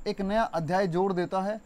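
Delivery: ordinary delivery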